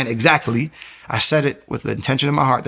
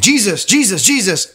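calling out a name; 9 semitones higher, 4 dB louder than usual. Retold or imitated. Calling on Jesus against shadows.

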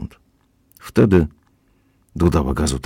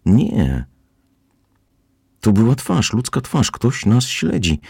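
higher, slow and urgent; agitated; 6 semitones higher, slower than usual. Acted. Karen insisting to her father about the face, agitated. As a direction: press the alarm into each phrase. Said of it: "mówiła bardzo przejętym głosem".

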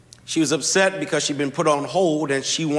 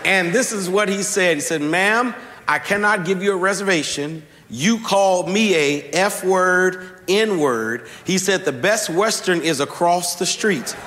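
rising sermon delivery; 2 semitones higher than usual. Acted. Preacher to congregation, building to the sermon's point. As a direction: lift the story toward the point.

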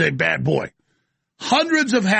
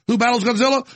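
mock trailer shout; 5 semitones higher, faster than usual. Mock monster movie trailer.

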